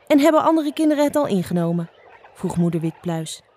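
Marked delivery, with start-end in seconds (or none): 0.1-1.9 anxious mother. Acted. Mother mouse asks anxious question.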